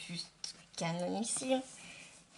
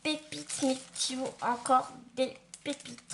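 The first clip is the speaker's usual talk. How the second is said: excited; 4 dB louder than usual. Real, not acted. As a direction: gush over the finds. Unboxing delight.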